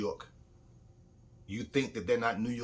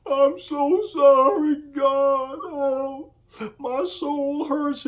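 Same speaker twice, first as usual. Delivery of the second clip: much higher, louder and slow, hammed-up weeping preacher; mock tearful confession; 11 dB louder, much slower than usual. Televangelist apologizing to God on TV, mock sobbing. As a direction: ham up a sobbing televangelist begging forgiveness.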